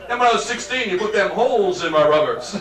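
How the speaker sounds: lightly put-on southern cop; a hint of mock southern trooper; southern accent. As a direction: play the trooper with a slight southern twang. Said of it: "you develop a southern accent".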